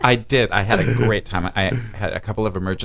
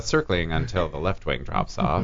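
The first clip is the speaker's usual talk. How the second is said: controlled pilot voice. Retold or imitated. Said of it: "it's that controlled".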